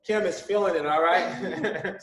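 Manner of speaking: talking through real laughter; laughing. Real, not acted. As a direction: laugh while getting the words out. Laughing at Kim struggling.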